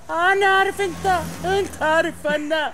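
put-on broken Arabic with an English accent. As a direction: speak Arabic like an American. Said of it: "صار تحكي عربي مكسر".

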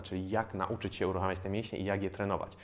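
normal talking voice

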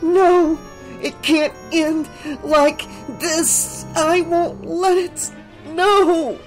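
high, slow determined vow; girl fighting sleep; hissing determination. A narrator's reading. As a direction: swear it to herself through drowsiness. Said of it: "hissing to herself".

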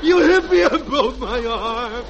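slow, hammed-up whimper of a boy claiming injury; milk the fake hurt arm slowly; fake whining kid. Junior accusing his mother, slow mock whimper. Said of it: "and I'll be the little boy".

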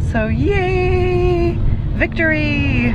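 high, loud victory cheer; excited cheer. Real, not acted. Patient celebrating no steroids, excited cheer. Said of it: "I am so excited".

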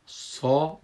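سا as a heavy emphatic "saw". Shown as a demonstration. Teacher shows sad with fatha, a full heavy سا. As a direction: say سا with a full, thick Arabic s.

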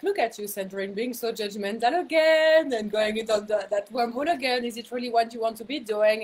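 gently mock your own judgment; laughing at herself. Teasing herself about road rage, playful sing-song. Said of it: "alchemize it by laughing at myself".

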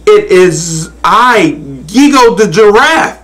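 high, strained little giraffe; last bit of valor. A narrator's reading. Giraffe answering the good Lord, timidly brave. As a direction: announce yourself in a high voice, mustering courage. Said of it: "with his last bit of valor left".

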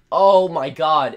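slow, loud groan of oh my god; frustrated outburst. Real, not acted. Gamer fails level while talking, slow loud groan.

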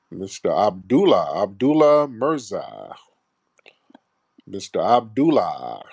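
slow, drawn-out roll call. Real, not acted. Host summoning the next caller, calling out slowly. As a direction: stretch the name out to summon him.

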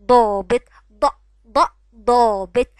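ضابط loud, the ض split off and stressed; emphatic sounding out. Shown as a demonstration. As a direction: isolate ض then say ضابط loud and slow. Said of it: "اسمه ايه". (تقطيع ض ثم ضابط بصوت عالٍ)

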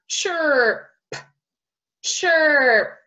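"Chirp" stretched, with a separate final p; slow phonics "Chirp"; ch sound demo. Shown as a demonstration. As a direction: start "Chirp" on a train-like ch, hold the middle, pop the p. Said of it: "ch, like our train sound".

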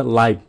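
"live" with its final consonant left off; wrong final sound. Shown as a demonstration. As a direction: say "live" like "lai", dropping the ending. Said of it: "các bạn làm live như vậy là các bạn nghe không có giống". (nói "live" thiếu âm cuối)

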